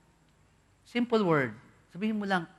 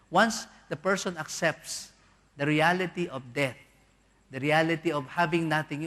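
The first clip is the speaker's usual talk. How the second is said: slow emphasis. Real, not acted. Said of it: "slow emphatic sermon".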